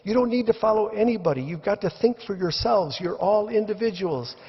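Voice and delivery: high, fast urging; lecturing Brian. Retold or imitated. Brian urges the mob to think, fast and high. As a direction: rush to convince them, pitched high. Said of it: "he says".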